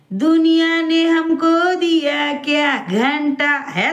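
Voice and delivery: slow, drawn-out sneering imitation; mock her line slowly in a put-on voice, half sung; mocking quote. Mocking the woman she scolds, slow sneering imitation. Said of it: "नाही दिलं तर म्हणे".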